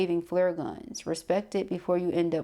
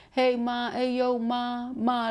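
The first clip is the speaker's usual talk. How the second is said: higher, drawn-out mock catcall; imitating a catcaller; 6 semitones higher, slower than usual. Reader imitates a man trying to get a woman's attention, mock calling out. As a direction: lightly voice a guy calling after a woman. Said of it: "somebody be like".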